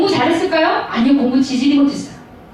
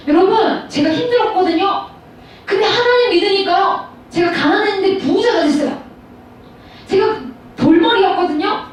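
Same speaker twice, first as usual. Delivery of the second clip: lightly imitated testimony, pitched up; testimony giver; 3 semitones higher than usual. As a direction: recount it like a well-worn church testimony. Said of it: "이런 간증 많이 들어보셨을".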